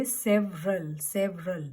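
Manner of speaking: "several" as SEV-rul; correct several. Shown as a demonstration. Teacher modelling silent E, correct pronunciation. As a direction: drop the middle E in "several". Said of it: "E is silent here".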